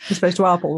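"apple" with a long back A, "arpple"; properly British APPLE. Shown as a demonstration. Co-host showing how we pronounce it properly, "apple" as "arpple". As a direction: stretch the first vowel of "apple" to AR. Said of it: "how we pronounce it properly".

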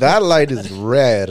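low, slow and deliberate warning; slow tense warning. Retold or imitated. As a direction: spell it out slowly to a reckless driver. Warning girlfriend at red light.

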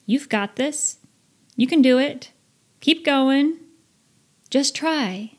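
lightly upbeat inner coach; encouraging self-talk. Retold or imitated. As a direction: cheer yourself on. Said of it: "Maybe you say things like".

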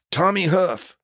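a hint of the injured stuntman saying "Tommy Huff"; stuntman's name. Stuntman introduces himself from the next gurney, lightly voiced. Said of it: "He goes".

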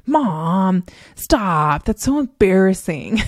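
lightly voiced mortified kid; mock protest from an embarrassed son; drawn-out mock complaint to Mom; imitating embarrassed son. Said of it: "my son was like".

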